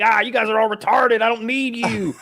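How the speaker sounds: high, loud, put-on mock Elon voice, slowing on the last words. Mocking Elon for his podcast co-hosts, high and loud. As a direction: ham up a smug billionaire brushing off his fans. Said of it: "he's like".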